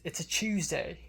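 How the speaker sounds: restrained RP British, TUESDAY starting like "chews"; received pronunciation British accent. Shown as a demonstration. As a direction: say it in unexaggerated British. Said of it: "that exaggerated".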